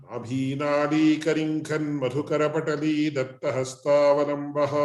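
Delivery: fast Sanskrit verse recitation; rapid recitation. Acted. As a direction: rattle off the prayer verses. Recites invocation verses quickly.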